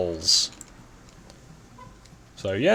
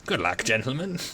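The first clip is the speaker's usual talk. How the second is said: posh officer voice. Pretend. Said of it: "the most exaggerated posh voice I can manage".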